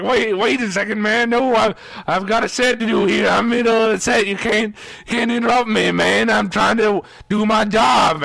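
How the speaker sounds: acted-out anxious excuse; pleading protest. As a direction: try to talk your way out of a fight. Protesting to the angry guy.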